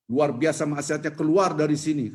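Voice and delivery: calling out to the whole congregation over a mic; mock mic announcement. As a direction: announce it like testing a microphone to a crowd. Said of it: "Kan pakai mic".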